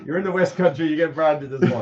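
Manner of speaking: laughing tease. Real, not acted. Teasing friend, laughing.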